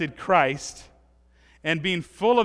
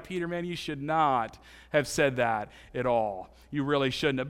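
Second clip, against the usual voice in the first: friend scolding; 7 semitones lower, 6 dB quieter than usual. Retold or imitated.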